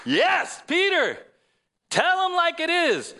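high, loud cheer; cheering supporter. Acted. Preacher acts out Peter's supporters cheering him on, rousing. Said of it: "And some would go".

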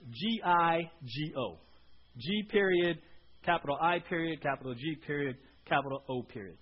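dictating. Shown as a demonstration. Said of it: "but put these".

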